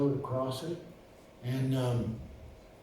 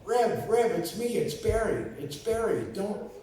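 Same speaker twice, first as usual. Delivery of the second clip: higher, pleading fast for his life; hammed-up frightened plea; mock panicked pleading; 7 semitones higher than usual. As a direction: beg not to be shot, half laughing. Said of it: "And I went".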